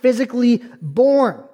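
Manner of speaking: measured preacher's emphasis, weighty pauses; emphatic preaching. Acted. Preacher explaining Jesus' authority to the congregation, emphatic preaching. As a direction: drive the point home to the congregation.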